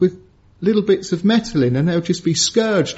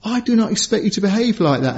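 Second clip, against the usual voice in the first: stern dad scolding; 4 semitones higher than usual. Retold or imitated. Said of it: "pulled up by my dad and saying".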